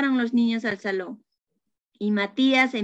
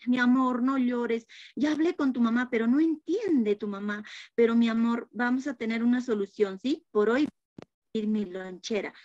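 soothing teacher. Acted. Teacher consoling the child.

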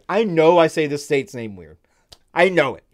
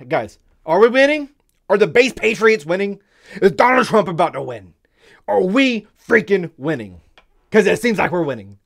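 excited cheering; 4 semitones higher than usual. Real, not acted. Gloating over good news.

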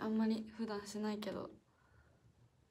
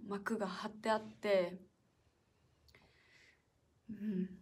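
slow whisper; 2 semitones lower, slower than usual. Real, not acted. Idol describing hidden curtains to fans in a slow whisper. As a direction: whisper it slowly, confiding. Continues the pool secret.

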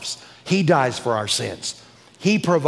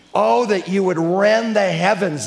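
pleading prophet cry; 4 semitones higher than usual. Acted. Quoting Isaiah's cry.

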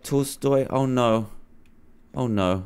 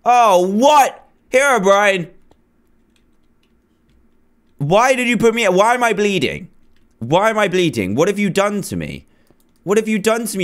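shocked; 7 semitones higher than usual. Real, not acted. Wakes up bleeding, shocked.

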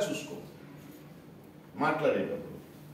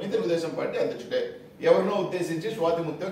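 ordinary talk, nothing marked

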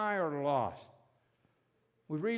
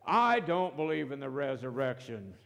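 mock back-and-forth dispute, pushed a little louder; acted-out squabble; arguing; 4 dB louder than usual. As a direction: insist on your side as if debating. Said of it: "and they argued about things".

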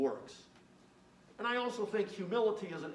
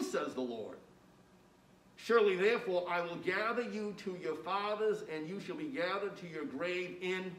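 scripture reading. Acted. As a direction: read God's words with weight and care. Reads the scripture to the class.

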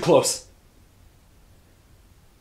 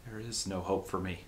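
tragic heroine sorrow. Acted. Resigned to her fate.

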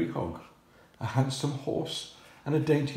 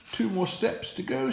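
high thief voice; 10 semitones higher than usual. Acted. Thief Hugh speaks.

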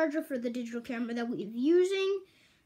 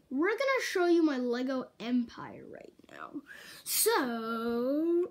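whisper; slower than usual. Acted. Whispered tour intro.

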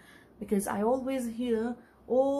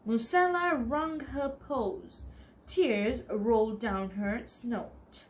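story narration; 3 dB louder, slower than usual. A narrator's reading. Teacher reading a storybook aloud to the children, clear and lively.

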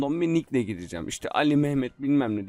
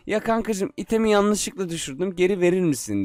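sweet pleading friend; 5 semitones higher than usual. Pretend. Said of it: "ona diyeceğim ki".

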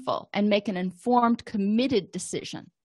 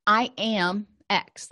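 slow demo; much slower than usual. Shown as a demonstration. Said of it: "Another one would be".

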